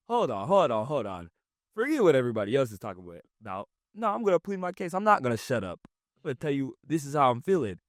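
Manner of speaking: insistent, riled-up acted protest; pleading your case. Acting someone across a table pleading their case, insistent. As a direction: push back with jumps up in pitch. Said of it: "you're pleading your case".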